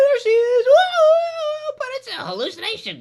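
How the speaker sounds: very high, loud fake thrill; mock excitement. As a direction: shriek it like a hammed-up horror fan. Mocking the zombie reveal.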